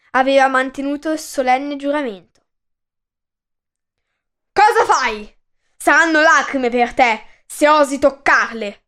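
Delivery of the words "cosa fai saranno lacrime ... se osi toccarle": loud stern warning; threatening. Acted. King Pelasgo threatens the messenger, loud and menacing. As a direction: warn him off, full of menace. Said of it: "minacciò Pelasgo".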